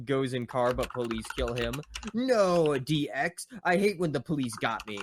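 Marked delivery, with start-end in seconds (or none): 2.1-5.0 frustrated cry. Acted. Eddie killed by police.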